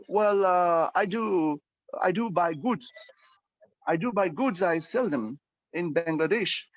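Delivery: simple broken English. Shown as a demonstration. Teacher acts out a weak business answer. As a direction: stumble through basic words. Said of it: "these are the simple words".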